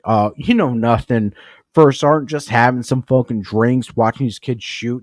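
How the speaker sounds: loud, careless brush-off; defiant drunk retort. Retold or imitated. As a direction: shrug it off like a drunk. Drunk sergeant replying defiantly.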